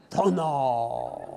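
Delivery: mock Zen master. Master repeating his answer to the students. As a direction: shrug it off like the old master. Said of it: "and he'd say".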